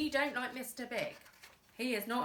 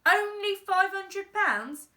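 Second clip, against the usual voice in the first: slow, much higher, louder mockery; incredulous mock; 10 semitones higher, 9 dB louder than usual. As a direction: repeat it back in mocking disbelief. Boss mocks dad's words.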